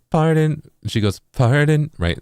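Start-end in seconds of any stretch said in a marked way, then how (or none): 0.1-0.6 "Pardon," sung on one level note; straight pitch. Shown as a demonstration. Explaining synth tuning, showing the flat pitch version. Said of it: "Instead of going". 1.3-1.9 "Pardon," dipping down then sliding up; dip low to high. Shown as a demonstration. Explaining synth tuning, showing the dipped scoop version. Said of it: "little dip from lower to higher".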